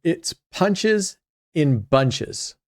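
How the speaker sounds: "punches in bunches" drawn out slowly, "punches" pitched high; corrected phrase. Shown as a demonstration. Correcting a misheard phrase for viewers, "punches in bunches" slow and emphatic. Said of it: "I'm butchering that".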